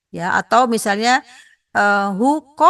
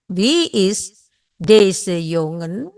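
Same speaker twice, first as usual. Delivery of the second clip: even slower, drawn-out repeat; much slower than usual. Shown as a demonstration. Teacher repeats the question even more slowly. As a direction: stretch each word for the class. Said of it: "Jongen adalah laki-laki".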